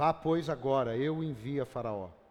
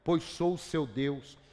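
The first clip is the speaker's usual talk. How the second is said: scripture reading in God's voice; 2 semitones higher than usual. Acted. Reads Isaiah 41 as God speaking.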